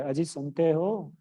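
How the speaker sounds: lightly voiced sweet wife calling gently; loving call. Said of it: "प्यार से जब बोलेगी".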